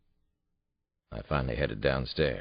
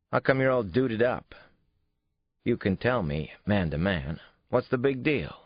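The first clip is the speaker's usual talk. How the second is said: put-on higher kid's voice, pressing; pushy boy; 7 semitones higher, 4 dB louder than usual. A narrator's reading. Son presses his father about the date, insistent. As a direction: push for the secret man to man.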